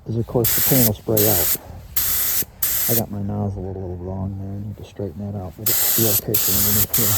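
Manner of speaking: muffled, echoing inside a respirator mask; talking through a mask. Real, not acted. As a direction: speak through a paint mask. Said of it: "I got this mask on, it's kinda reverberating".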